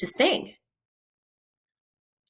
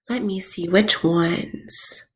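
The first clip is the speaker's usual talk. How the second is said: whispering; 3 semitones lower, 5 dB quieter, slower than usual. Real, not acted. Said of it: "whisper heard".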